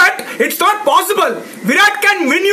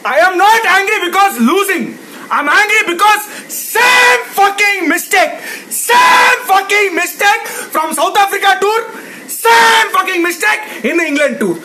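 fuming rant. Real, not acted. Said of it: "That's why I'm fuming".

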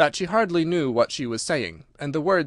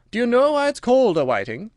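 louder, brisk Gryphon; gruff Gryphon voice; 10 semitones higher, 5 dB louder than usual. Acted. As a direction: bark it out as the Gryphon.

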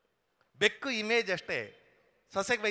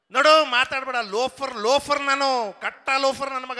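mock quarrel boast; 2 semitones higher, 6 dB louder than usual. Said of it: "ಅಂದ".

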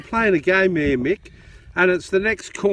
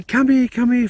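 retold yelling; 5 semitones higher, 5 dB louder than usual. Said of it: "He's yelling at me".

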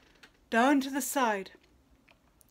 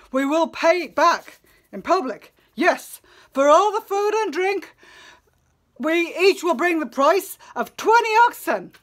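frightened pleading; 4 semitones higher, 6 dB louder than usual. Acted. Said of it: "pale fear seized all of them".

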